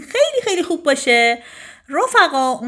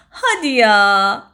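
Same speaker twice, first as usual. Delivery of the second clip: surprised exclamation; 3 semitones lower, much slower than usual. Shown as a demonstration. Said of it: "تعجب کردی مثلاً".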